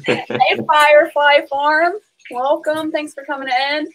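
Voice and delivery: high, bright greeting to a viewer; cheerful welcome. Real, not acted. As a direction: welcome them in with a lifted voice.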